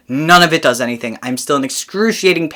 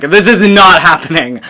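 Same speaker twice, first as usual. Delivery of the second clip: retold scream; 2 semitones higher, 7 dB louder than usual. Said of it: "and then I scream".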